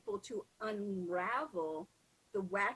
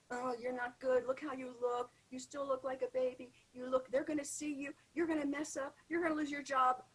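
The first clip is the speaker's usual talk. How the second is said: higher, relentless nagging voice; hammed-up self-criticism in a raised pitch; loud inner tormentor; 4 semitones higher than usual. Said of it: "That loud torment".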